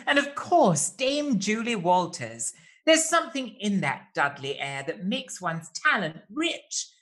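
grand theatrical verse reading; poem recital. Acted. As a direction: declaim it like a camp showman. Reciting bespoke poem introduction.

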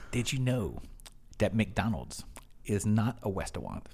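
earnest clerk with r's and l's turned to w's; imitated cashier. Cashier telling a customer his fun fact, imitated. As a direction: mimic a cashier solemnly delivering trivia, in short phrases. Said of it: "he said".

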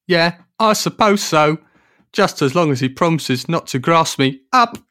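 high, loud theatrical voice; grudging rock star agreeing; a rock singer's voice. Acted. The rock singer's voice again.

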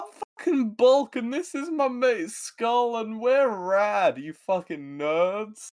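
sneering high bully boast; mock the nerds like a jock bully; tough bully voice. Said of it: "it's just a bit like".

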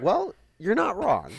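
high, drawn-out reluctant agreement; amused concession. Retold or imitated. Parents concede the child's point.

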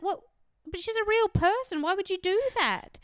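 incredulous, voice shooting high; disbelief. Retold or imitated. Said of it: "And I was like".

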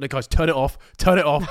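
urgent hush. Retold or imitated. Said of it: "I was like".

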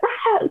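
high, restrained imitation scream; half-voiced high-pitched shriek; mock scream. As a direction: squeal a pretend scream without volume. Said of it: "screaming at me".

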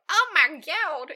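high, slow alarmed cry; hammed-up startled yelp; mock panic. Character flees in panic.

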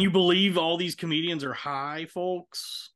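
lightly hammed stand-up host; stand-up comic voice. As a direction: work the crowd like a comic. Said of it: "any stand-up show where it's like".

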